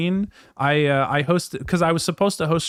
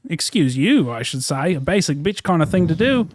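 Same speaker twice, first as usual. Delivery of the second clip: put-on Australian accent. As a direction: speak in a faked Australian accent. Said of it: "continued the Australian accent for two hours".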